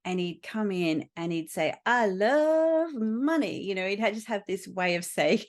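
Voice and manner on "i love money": put-on Indian-accented boast, slow, higher and loud; gleeful slow drawl in an Indian accent. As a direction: imitate a client's thick Indian accent, stretching it out. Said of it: "he had a thick accent".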